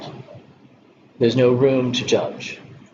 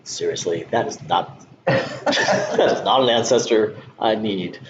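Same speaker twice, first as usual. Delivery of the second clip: laughing disbelief. Retold or imitated. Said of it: "I was like".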